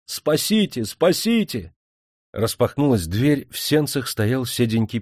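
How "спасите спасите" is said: high, desperate cries for help; panicked plea. A narrator's reading. Officer pounds on the priest's door, panicked plea. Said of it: "заколотил в дверь".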